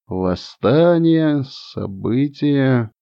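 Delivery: slow, fading echo; echoing in head. Acted. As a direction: let the words ring and fade. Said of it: "гудело в голове эхо". (эхо в голове, медленно затихая)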